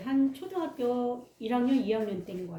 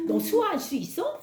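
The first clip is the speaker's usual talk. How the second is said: put-on curious kid; 2 semitones higher than usual. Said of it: "친구들이 궁금해".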